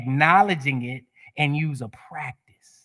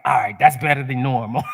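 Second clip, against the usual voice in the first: laughing quote; 3 semitones lower, 5 dB louder than usual. Retold or imitated. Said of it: "I'm like".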